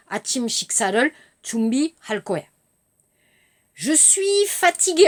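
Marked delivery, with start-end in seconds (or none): 3.7-5.1 put-on lightly raised child voice; a hint of a sleepy little girl; little girl Alice. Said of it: "vous entendez Alice, la petite fille". (petite fille fatiguée, voix légèrement aiguë)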